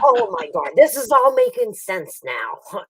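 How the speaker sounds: laughing, slow realisation; doctor amazed at the family link, laughing. Retold or imitated. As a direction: let it dawn on him with a laugh. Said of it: "He's like".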